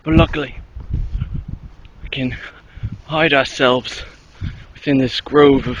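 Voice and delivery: lightly put-on English-leaning accent, documentary narrator; mock nature-host accent. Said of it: "it's more English than Australian".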